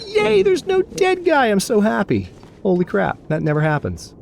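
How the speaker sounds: very high, drawn-out squealed cheer, easing down; playful celebration. Pretend. Mock celebrating no corpse.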